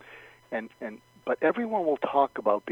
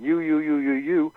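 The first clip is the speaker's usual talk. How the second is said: loud, higher rapid-fire repeated "you"; accusing; 3 semitones higher, 6 dB louder than usual. Acted. Coach mimics blaming an upset person, accusing. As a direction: jab each "you" out loudly, like pointing blame. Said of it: "Instead of saying".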